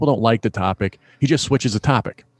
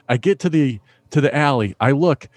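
ordinary delivery

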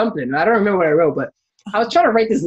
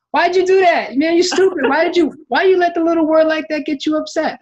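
higher, louder mock scolding from girlfriend; imagined scolding; 11 semitones higher, 3 dB louder than usual. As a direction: scold him like she can't believe him, raised and loud. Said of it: "the conversation would have been like".

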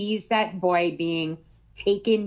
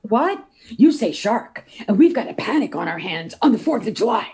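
imitating the mayor; 3 semitones higher, 4 dB louder than usual. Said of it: "That's exactly how he said it".

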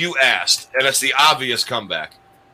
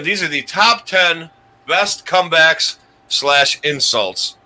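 slow show announcement; 3 semitones higher, slower than usual. Acted. Announcing top ten.

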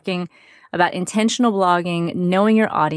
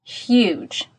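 tin can sound. Real, not acted. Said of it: "so it sounds a bit like I'm in a tin can".

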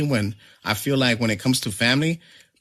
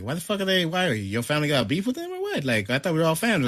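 higher-pitched, baffled questioning; retold bewildered protest; 6 semitones higher, faster than usual.

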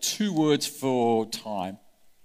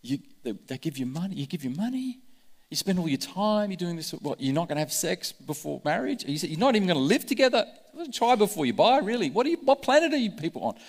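mocking skeptic; 3 semitones higher, faster than usual. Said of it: "And then".

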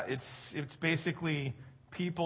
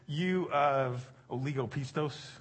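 gentle rebuke. Retold or imitated. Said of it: "And then he says".

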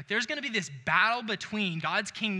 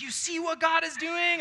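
a much higher, shouted proclamation; bold preacher; 10 semitones higher, 4 dB louder than usual. Retold or imitated. Imagining himself as bold Peter, announcing to passersby with a shout. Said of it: "Peter here boldly going like".

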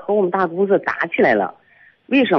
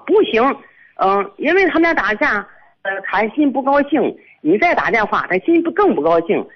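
higher-pitched mock objection; retold quarrel; 5 semitones higher than usual. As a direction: act out a husband's refusal, pitched up. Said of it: "就为这个吵起来了". (转述争吵，音调抬高)

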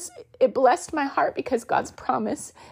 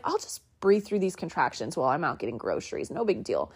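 lower, offhand and unbothered; breezy; 5 semitones lower, 4 dB quieter than usual. Retold or imitated. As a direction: shrug it off like it's nothing. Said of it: "So I was like".

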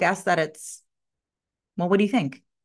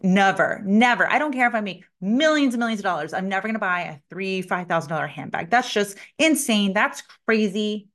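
indignant refusal; 2 semitones higher than usual. Retold or imitated. Retells her own defiant refusal.

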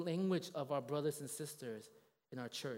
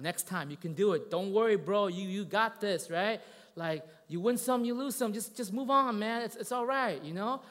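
urgent encouragement; 5 semitones higher, 8 dB louder than usual. Retold or imitated. Coaxing a crying kid, growing louder.

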